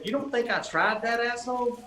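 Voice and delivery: high-pitched mock-indignant comeback; retold indignant retort. Guest retorting to unhelpful desk clerk, retold indignation. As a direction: throw it back incredulously, as a retelling.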